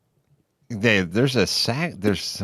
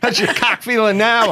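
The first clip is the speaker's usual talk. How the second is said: laughing; 11 semitones higher than usual. Acted. Mocking joke, laughing.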